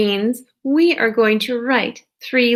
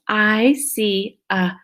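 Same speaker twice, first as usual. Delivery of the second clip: slow reading; much slower than usual. Shown as a demonstration. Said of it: "If you wrote this".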